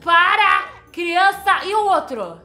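loud high cry of stop; sharp yell. Acted. Mother shouting at the kids to stop, loud. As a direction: snap the kids to a halt at full volume. Simone yells at the children.

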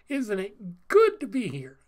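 imitating an exuberant preacher, with a loud punch; enthusiastic. Pastor opening his message, enthusiastic. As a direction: boom it out to the room. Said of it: "sometimes he gets so enthusiastic".

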